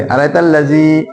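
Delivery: अराइतल लज़ी with final ज़ी lengthened; slight stretch. Shown as a demonstration. Teacher shows where to stretch, अराइतल लज़ी with long ज़ी. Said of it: "थोड़ा सा वहां पे आके इसको खींचेंगे".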